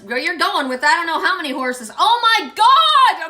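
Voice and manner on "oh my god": a slow, loud, high "oh my God" of real shock; stunned gasp. Real, not acted. Reader floored by her card reading, loud stunned gasp. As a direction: gasp it out, floored by what just happened.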